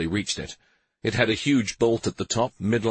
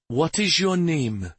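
soft reassuring; 8 semitones higher than usual. Acted. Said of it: "in a soft, reassuring tone".

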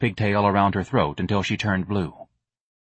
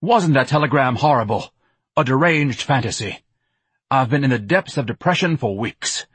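higher, louder melodramatic complaint; self-pitying Ignatius; 5 semitones higher, 3 dB louder than usual. Acted. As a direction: moan it grandly, aggrieved. Ignatius laments his mother.

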